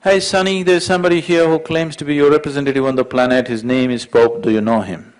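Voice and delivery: loud, high call to the son. Acted. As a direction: call out loudly, announcing. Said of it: "he raised his voice and said".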